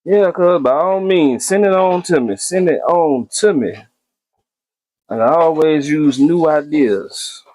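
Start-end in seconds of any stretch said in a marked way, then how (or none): 0.1-3.7 higher, keen call to viewers; eager invitation. Real, not acted. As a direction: wave them in eagerly. Inviting viewers to send ideas.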